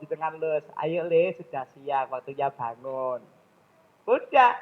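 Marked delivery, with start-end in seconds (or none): 0.7-3.2 ajakan lembut seorang ibu; membangunkan anak lembut. Retold or imitated. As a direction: bangunkan anak dengan tenang dan pelan. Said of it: "Kalau anak laki cukup". (ibu membangunkan anak laki-laki, lembut dan pelan)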